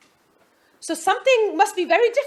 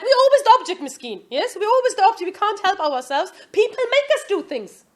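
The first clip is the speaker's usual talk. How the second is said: mock self-pity; 5 semitones higher, 4 dB louder than usual. Mocking self-pity about excuses.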